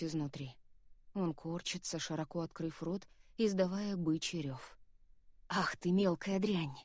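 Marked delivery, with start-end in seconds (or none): 5.5-6.7 slow, snarling demon curse; hoarse demon voice. Acted. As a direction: spit it out like a demon, slowly. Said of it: "Хриплый голос демона вырывается наружу".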